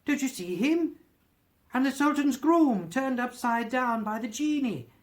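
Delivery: high, loud, earnest excitement; pointing out beloved storybook characters, carried away; extraordinary excited voice. A narrator's reading. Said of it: "in a most extraordinary voice".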